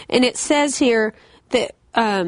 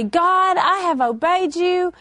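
self-righteous complaint; 5 semitones higher than usual. Retold or imitated. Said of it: "And we say".

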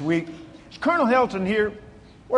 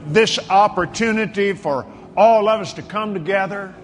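measured, emphatic pastoral prayer; preacher's prayer with long pauses between declarations; fervent prayer. Real, not acted. Leads congregation in fervent prayer.

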